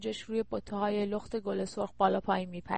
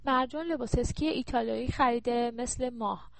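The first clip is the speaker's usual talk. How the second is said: sulky complaint; 2 semitones higher than usual. Acted. Daughter sulks to mother about her old ski suit, sulky complaint. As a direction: whine like a daughter wanting new clothes. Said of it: "پا زمین کوبید و اخم کرد".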